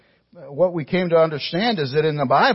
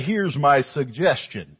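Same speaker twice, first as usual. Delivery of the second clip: mock suggestion. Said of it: "He did not say".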